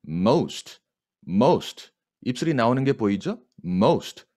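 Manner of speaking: ordinary delivery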